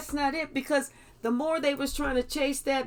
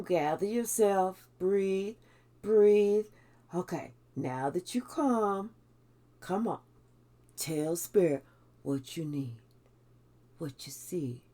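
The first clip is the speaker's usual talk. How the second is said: softer and lower, soothing; calming voice; 4 semitones lower, 3 dB quieter than usual. Retold or imitated. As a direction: settle them down gently. Spirit calming a panicked person.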